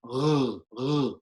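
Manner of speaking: R gargled at the soft palate; French R. Shown as a demonstration. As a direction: roll a French "R" at the back of the tongue. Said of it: "backed by the soft palate".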